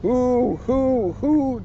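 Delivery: high hoo hoo hoo chuckle; Tigger chuckle. Acted. Tigger chuckling proudly about his stripes, high. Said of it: "Tigger chuckled".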